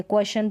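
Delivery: क्वेश्चन misread as "kwe-shan"; क्वेश्चन with just a "sh" in the middle; wrong SH pronunciation. Shown as a demonstration. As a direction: say क्वेश्चन without the "ch". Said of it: "हम इसको क्वेश्चन नहीं पढ़ेंगे".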